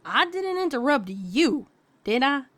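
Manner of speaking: deadpan. A narrator's reading. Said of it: "returned with a deadpan look".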